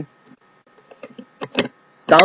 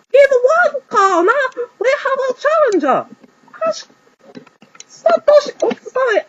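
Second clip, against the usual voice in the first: stadium announcer. Acted. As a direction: open the show to the crowd. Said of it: "he announced".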